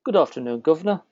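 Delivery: playful UK accent, lifting on "governor"; attempted British accent. Shown as a demonstration. Host copies guest's UK greeting, imitated British accent. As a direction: copy a mock British greeting. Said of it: "try and talk the U K".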